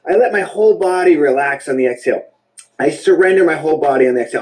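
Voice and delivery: relaxed release. Shown as a demonstration. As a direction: let the sigh melt into calm words. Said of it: "The exhale is just to relax".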